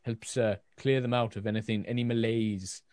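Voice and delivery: lightly voiced Welsh-accented healer; a shaky stab at a Welsh accent; attempted Welsh accent. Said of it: "it was my attempt at Welsh".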